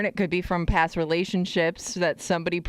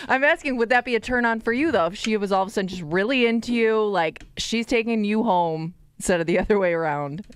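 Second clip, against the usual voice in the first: holding back laughter; 3 semitones higher than usual. Real, not acted. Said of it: "can't even say it with a straight face".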